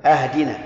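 أهدنا opened with a fatha on the hamza; wrong vowel demo. Shown as a demonstration. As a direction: start أهدنا with a clear a. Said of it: "أو يفتح همزة اهدنا".

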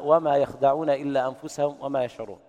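chanted يخدعون with no long a; without alif. Shown as a demonstration. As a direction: recite يخدعون short, yakhda'un. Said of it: "قوله تعالى".

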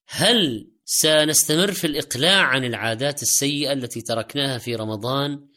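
ordinary talk

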